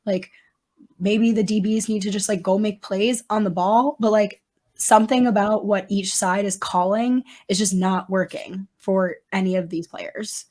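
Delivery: hoarse, raspy near-whisper; talking through a worn-out voice; lost voice. Real, not acted. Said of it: "have no voice".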